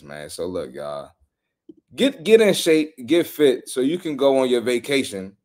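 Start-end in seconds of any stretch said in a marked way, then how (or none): 1.9-5.4 rally the viewers like a coach; pep-talk shout; exhorting. Real, not acted. Exhorting the audience.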